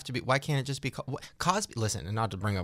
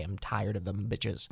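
fed up; 4 semitones lower, 5 dB quieter, slower than usual. Real, not acted. Fed-up aside.

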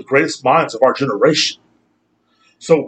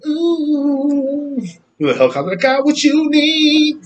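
seductive voice; 13 semitones higher, slower than usual. Pretend. Mock seductive podcast bit.

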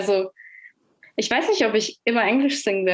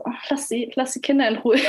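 mock exasperated plea; 3 semitones higher than usual. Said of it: "Das klingt so blöd".

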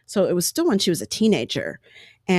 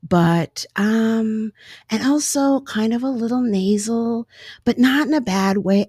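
Anne Heche voice; 3 semitones higher than usual. Retold or imitated. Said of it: "that's the best that I can do of her".

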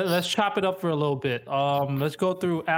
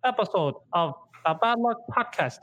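higher-pitched put-on Chinese accent; mock Chinese accent; 4 semitones higher than usual. Host welcoming listeners back to the podcast in a mock Chinese accent. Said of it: "That was your Chinese accent?".

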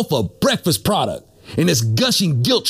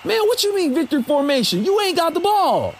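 whiny player voice; 5 semitones higher than usual. Acted. Acted player dialogue.

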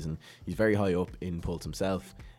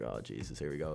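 muttered dread; 3 semitones lower, 6 dB quieter than usual. Retold or imitated. Self dreading the test.

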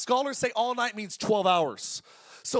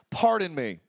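lightly voiced old grandma asking Pardon me; a hint of a hard-of-hearing grandma; grandma's pardon me; 4 semitones lower, 3 dB louder, slower than usual. Imitating grandma who couldn't hear, light. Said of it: "my grandma used to say this all the time".

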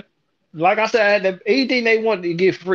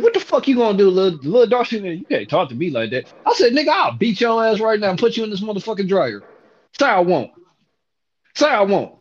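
angry retort. Retold or imitated. Retold confrontation.

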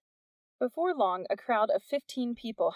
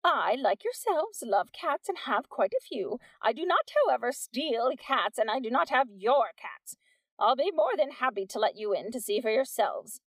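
theatrical address; 4 semitones higher, 3 dB louder than usual. Acted. Missus Wack addressing the mob, grandly theatrical. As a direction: play the innocent lady.

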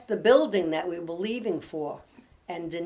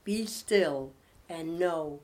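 devotional reading; 4 dB louder than usual. Acted. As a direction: read it as comfort for troubled listeners. Reads devotional aloud to close.

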